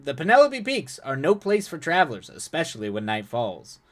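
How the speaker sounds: smooth, lifted warning; polite veiled threat; suave man. Acted. Suave character voice again.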